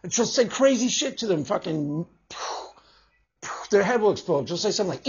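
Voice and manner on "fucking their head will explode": ordinary talk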